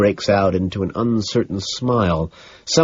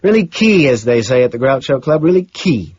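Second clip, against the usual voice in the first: higher, hearty amused approval; chuckling approval; 5 semitones higher, 4 dB louder than usual. A narrator's reading. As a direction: relish the joke, punching up the praise. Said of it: "He keeps chuckling".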